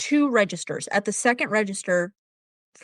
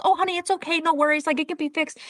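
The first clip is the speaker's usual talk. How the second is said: put-on a lightly higher, sweet old lady; old woman voice; 6 semitones higher than usual. Old woman at the register reassures a stranger, lightly voiced. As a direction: voice the kind old woman gently. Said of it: "she goes".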